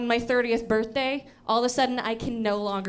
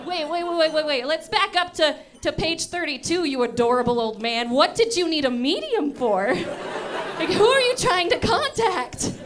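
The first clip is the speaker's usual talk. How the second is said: eager protest; 4 semitones higher than usual. Pretend. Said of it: "It's like".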